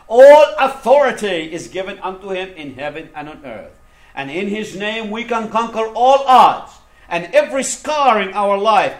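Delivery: forceful, declaring sermon voice; emphatic preaching. Acted. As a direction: proclaim victory to the congregation. Proclaims Christ's authority.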